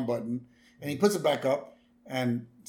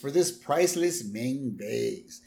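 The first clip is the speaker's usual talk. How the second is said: lightly voiced clown, higher; hint of a hammy clown; Krusty voice; 5 semitones higher, 5 dB louder than usual. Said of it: "He says".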